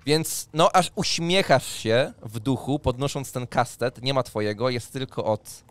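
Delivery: ordinary talk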